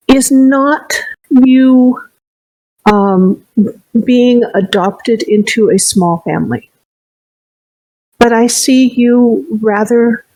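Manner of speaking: slow, gentle and deliberate; slow, tender fortune telling; slow kindly fortune teller. Acted. Fortune teller reveals hopeful future.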